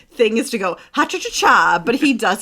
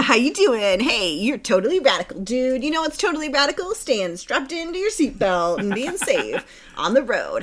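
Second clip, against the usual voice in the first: put-on extreme hyped kids ad. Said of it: "the Car Fox sounds like this".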